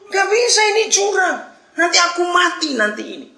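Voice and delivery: very high-pitched frantic refusal; stubborn, panicked protest. Acted. Hanging man refuses angel's order to let go, panicked yelling. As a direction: refuse loudly, as if about to die. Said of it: "Wah, ngotot lagi".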